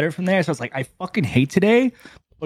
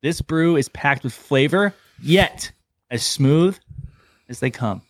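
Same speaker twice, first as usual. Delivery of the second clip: ad read; slower than usual. Shown as a demonstration. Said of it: "reading the beer description".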